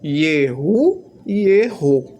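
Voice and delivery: "Yehu" ending in u, "Erro" in o, drawn out slowly; two pronunciations contrasted. Shown as a demonstration. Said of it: "com duas pronúncias".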